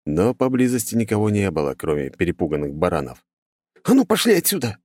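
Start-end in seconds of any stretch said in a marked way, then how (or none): 3.8-4.8 high, loud shout at sheep. A narrator's reading. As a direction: yell to drive the animals off. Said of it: "крикнул парень".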